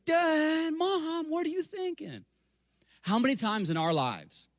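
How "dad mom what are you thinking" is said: put-on very high, outraged child's voice; squeaky child protesting to her parents; indignant kids. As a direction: whine like a cheated little girl. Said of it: "they would have been like".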